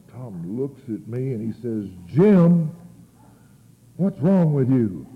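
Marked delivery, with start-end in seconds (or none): 2.1-5.1 loud, drawn-out reproach; acted scolding. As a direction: scold a friend in exasperation. Acts out Tom scolding him.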